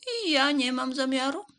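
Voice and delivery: high, loud mouse; loud, high mouse refusal; called-out refusal. A narrator's reading. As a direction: call it out high as the storybook mouse. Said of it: "zawołała szara mysz".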